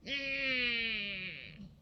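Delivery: tight grumpy hum; madder hmm. Shown as a demonstration. Showing a madder face, tight grumpy hum. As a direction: demo an angrier hum. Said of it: "an even madder face".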